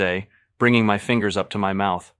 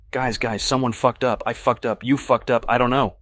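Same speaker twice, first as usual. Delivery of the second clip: higher, louder, tumbling panic; panicked babble; 5 semitones higher, 5 dB louder than usual. A narrator's reading. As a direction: blurt it out to friends in panic. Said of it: "I say in a total panic".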